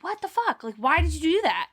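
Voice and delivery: high, disbelieving what the fuck; mock outrage at her dad; shocked retort. Sisters shocked at dad's rudeness, high disbelief.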